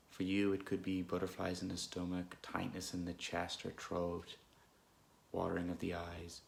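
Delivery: unhurried, calm meditation guidance with long pauses; guided meditation. Real, not acted. Guide leading listeners through an anxious moment, calm meditation voice. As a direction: gently lead listeners inward, leaving space between phrases.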